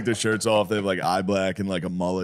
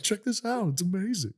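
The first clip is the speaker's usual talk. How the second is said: imitating Steve; 12 semitones higher, 6 dB quieter than usual. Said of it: "But Steve was like".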